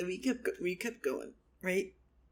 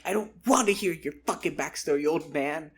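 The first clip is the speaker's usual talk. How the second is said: quick, louder goblin outburst; mock irritation; 4 dB louder than usual. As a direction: cut him off with quick, acted annoyance. Goblin snaps at the old man.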